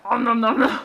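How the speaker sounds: playful put-on gobbling noises; mock eager eating voice; imitated munching. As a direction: chomp through the syllables like a greedy eater. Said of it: "And then he's like".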